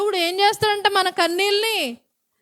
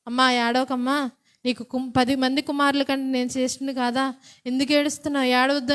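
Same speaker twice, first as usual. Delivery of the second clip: soothing husband; 4 semitones lower, 5 dB quieter than usual. Retold or imitated. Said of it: "భర్త ఏం చెప్పాడు?".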